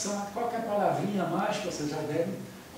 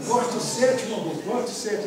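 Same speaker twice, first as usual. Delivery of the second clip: crowd protest; 4 semitones higher, 6 dB louder than usual. Acted. Acted crowd begging Moses again.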